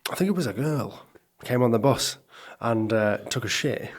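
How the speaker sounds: hushed, secretive telling; whispering. Real, not acted. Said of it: "Why are you whispering?".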